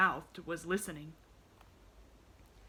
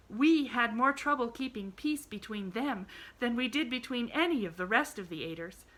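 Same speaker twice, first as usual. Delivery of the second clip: a little breathless; 5 semitones higher, 8 dB louder than usual. A narrator's reading. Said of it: "a little breathless".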